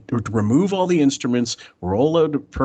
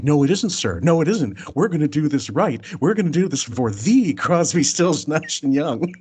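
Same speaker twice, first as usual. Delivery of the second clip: eager insistence; 5 semitones higher than usual. Retold or imitated. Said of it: "He goes".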